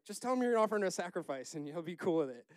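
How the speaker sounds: high, quick, casual brush-off; mock breezy insistence. Preacher voicing God reassuring Samuel, mock breezy insistence. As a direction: wave the worry away, fast and high.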